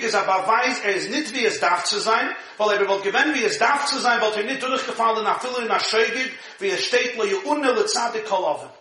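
steady recitation of the Yiddish source; reading a text aloud. Acted. Rabbi reading the Yiddish source to his class, recited. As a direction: read the passage out like a study text.

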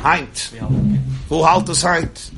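high, loud exclamation of mock disbelief; retold incredulous retort. Therapist challenges the man telling the story, incredulous. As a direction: throw it back loud and high, drawing out the question.

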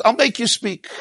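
high, laughing as he quotes; amused, laughing mock answer. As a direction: chuckle through "I'll make you speak.". Joking retelling of God's answer.

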